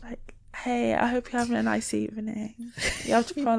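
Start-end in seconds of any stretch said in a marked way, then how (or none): 0.5-2.7 soft, put-on girly voice; best feminine voice.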